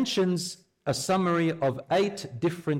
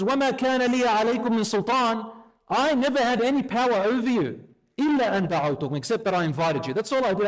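much higher, louder, gloating devil; smug Iblis; 7 semitones higher, 3 dB louder, much faster than usual. Acted. Iblis disowning his followers at the gates, gloating and high. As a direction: wash your hands of them, sing-song and high.

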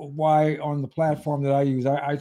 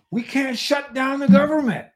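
high, whiny mock-timid voice; mock scared politician; 10 semitones higher than usual. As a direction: squeak it like a frightened politician. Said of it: "they're always scared to".

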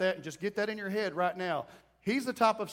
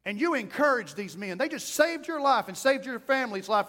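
exasperated scolding that builds louder; fed up scolding; 3 dB louder than usual. Acted. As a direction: tell him off, no more pity. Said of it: "saying it like this".

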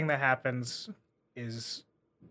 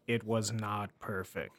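narrator voice; 4 semitones lower, 4 dB quieter than usual. Retold or imitated. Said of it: "Narrator voice".

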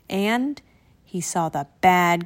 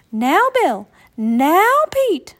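higher, louder motherly call; mother's warning; 8 semitones higher, 6 dB louder, slower than usual. A narrator's reading. Mama warning the boys as they set off, raised and firm. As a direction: stop them at the door with a warning.

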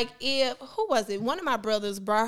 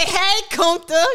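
put-on coaxing child; 5 semitones higher, 7 dB louder, slower than usual.

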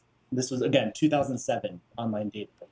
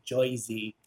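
exaggerated Jersey "oy" vowel; mock Jersey accent; 4 dB quieter than usual. Mother-in-law making fun of Jersey, mock Jersey accent. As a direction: mimic a Jersey accent, JOY-zee. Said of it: "make fun of the Jersey accent".

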